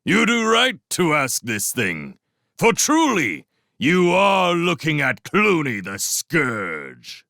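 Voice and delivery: loud, slow, grand warlord voice; menacing boast. Acted. Clooney revealing himself to Matthias, slow loud boast. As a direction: let the name land with menace. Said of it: "he called".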